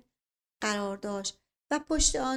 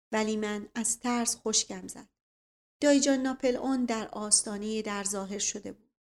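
ordinary delivery

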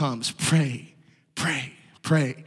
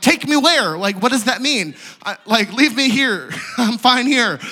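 higher-pitched, comically baffled objection; retold bewildered protest; 5 semitones higher than usual. Confused intern answering the praying group, baffled protest. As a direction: protest it, half laughing at yourself. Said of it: "I had no idea what that meant".

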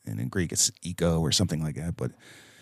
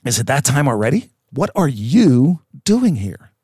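louder, higher, startled demon question; mock panicked demons; 5 semitones higher, 7 dB louder than usual. Demons panicking as Jesus arrives, louder and higher. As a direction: play the demons caught off guard, alarmed. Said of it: "And they're like".

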